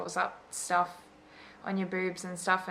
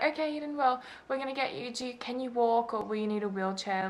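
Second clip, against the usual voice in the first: higher, softer caregiver voice; imitated nurse voice; 4 semitones higher, 4 dB quieter than usual. Nurses to groggy patient about leaving, coaxing higher voice. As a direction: lightly mimic staff coaxing a groggy patient.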